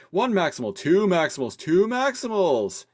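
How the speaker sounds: high rapid-fire auction calls; auctioneer. Retold or imitated. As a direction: call out bids like an auctioneer. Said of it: "He's, like, talking like an auctioneer".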